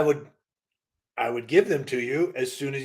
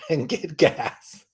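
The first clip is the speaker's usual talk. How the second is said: robot voice; 10 dB louder than usual. Acted. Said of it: "gotta have a whole robotic voice".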